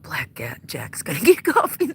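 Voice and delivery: hushed unvoiced aside with a chuckle; late-night whispered chuckle. Real, not acted. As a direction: whisper it so no one wakes.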